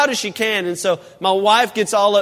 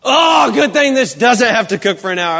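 mock sarcastic wife; 3 dB louder than usual. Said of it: "And she goes".

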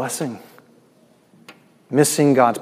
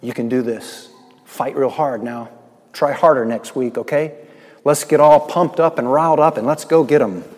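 mock pep talk. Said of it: "it doesn't say".

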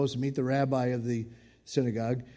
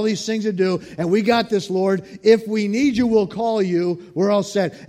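dismissive brush-off; 4 semitones higher, 7 dB louder than usual. Pretend. Busy people brushing off God.

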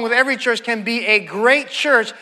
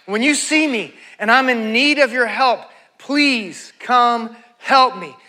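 drawn-out plea for help; plead, stretching the final words right out; earnest plea. Acted. Praying to God when in need of help, earnest plea.

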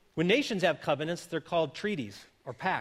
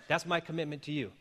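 softer, sincere marriage promise; tender, quieter pledge; sincere vow; 2 semitones lower, 5 dB quieter than usual. Shown as a demonstration. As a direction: say it as a heartfelt vow. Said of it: "I promise to love you for better".

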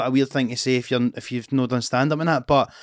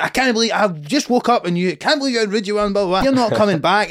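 higher, indignant mock message; lightly voiced huffy heckler; mock outraged heckler; 7 semitones higher than usual.

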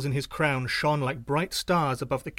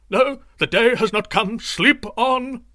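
higher, louder panicked shout; loud, high and scared, shouting back; frightened shout; 8 semitones higher, 8 dB louder, slower than usual. A narrator's reading. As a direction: yell it in fear to keep them asleep. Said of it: "He shouted in answer".

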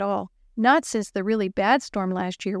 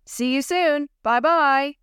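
from another room; 5 semitones higher, 3 dB louder, slower than usual. Acted. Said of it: "he heard a voice from the other room".

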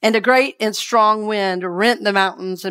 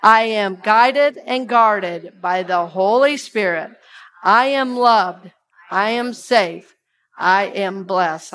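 slow, measured chant of each phrase; unhurried prayerful recitation; slow affirmation; slower than usual. Shown as a demonstration. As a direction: lead the room through it word by word. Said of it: "Will you say that with me".

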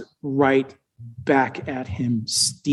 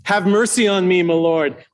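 pleading a bit louder; second plea, a touch louder; 3 semitones higher than usual. Acted. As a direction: raise the plea, push it out. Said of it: "Louder now".

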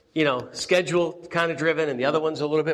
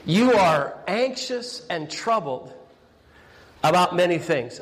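slow, deliberate reading; slower than usual. Shown as a demonstration. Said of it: "why don't we say those two words".

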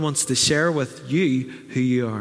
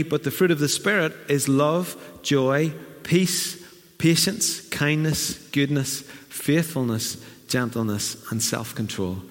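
measured list of fruits, rising then falling; a gently cadenced recitation; scripture reading; slower than usual. Acted. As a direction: read it out as a verse.

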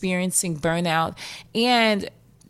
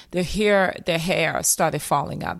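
a quick New York accent on the hair line. Shown as a demonstration. Therapist mimicking a client in New York accent. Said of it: "That was my New York accent".

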